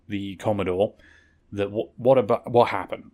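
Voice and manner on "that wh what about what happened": tripping over words; stumbling stutter on wh-. Real, not acted. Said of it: "I'm stuttering over my words".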